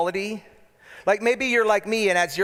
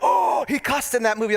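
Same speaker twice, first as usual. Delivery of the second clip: mock shocked prude; 5 semitones higher than usual. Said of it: "people that they're like".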